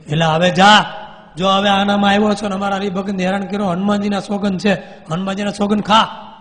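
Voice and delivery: swearing him by Hanuman; stern command. Retold or imitated. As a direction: banish the ghost. Swami orders ghost to leave.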